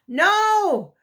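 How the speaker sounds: sharp, loud, high no; a sudden high bark of warning. A narrator's reading. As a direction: stop him cold with one word. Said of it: "D J's voice was so sharp".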